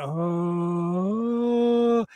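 long "oh" sliding up into a high held note. Shown as a demonstration. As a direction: glide up past the sticking point and hold it. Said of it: "that was the vocal cord that is making that higher sound".

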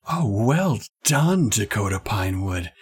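lightly voiced approving headmistress; headmistress building up. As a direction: draw out "well done", then drop for the name. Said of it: "kinda trying to build up to it".

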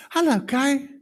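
high, sugary fake hello; mock sweet greeting. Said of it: "guess what was my heart".

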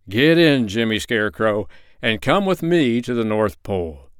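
loud, eager call, strongest at the start; cried out. Acted. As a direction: call him into the sled. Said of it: "he cried".

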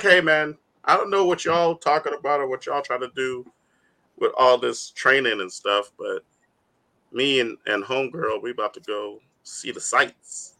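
lightly voiced laid-back hero, low and soft; Sonic. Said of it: "Sonic's like".

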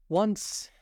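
high, loud, sighed-out word; deep sigh. A narrator's reading. Mock Turtle beginning his sad tale at last, deep sigh. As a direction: sigh it out high, as a mild lament. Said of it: "with a deep sigh".

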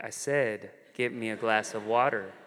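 low, firm imitation of a bossy sister; insistent command. Sister repeats order after refusal.

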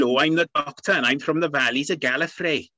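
put-on welsh valleys accent. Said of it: "put on a Welsh accent".

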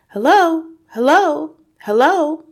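high, ringing hellos, each one falling; loud, clear call. A narrator's reading. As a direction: call out loudly from another room. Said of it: "a voice came loud and clear".

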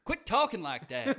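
high loud laughing line. Real, not acted. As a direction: laugh while scolding. Laughing tease.

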